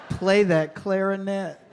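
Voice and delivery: drawn-out, hammed-up flirting.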